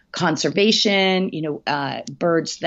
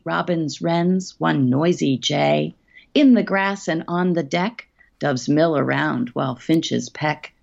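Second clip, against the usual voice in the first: lilting rhymed recital, clear and rhythmic; poem reading. Shown as a demonstration. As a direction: read it like a playful verse. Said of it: "Can I read you a poem?".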